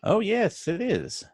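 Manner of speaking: high squeaky voice; helium voice. Pretend. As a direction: speak as if on helium. Helium balloon bit.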